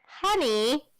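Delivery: loud sharp honey; bark. Acted. Miss Dodds barking at Percy, loud sharp call. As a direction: snap it like an order. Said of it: "Miss Dodds barked at me".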